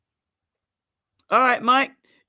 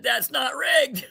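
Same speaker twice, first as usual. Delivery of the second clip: laughing quote; slower than usual. Retold or imitated. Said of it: "You just said".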